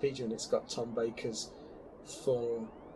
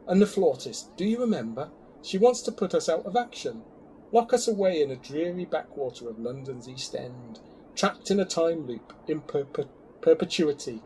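dramatic reading; 3 semitones higher than usual. Pretend. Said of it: "Dramatic reading now".

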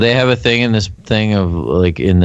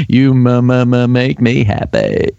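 Simple Jack voice. Retold or imitated. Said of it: "Tom Hanks in Simple Jack".

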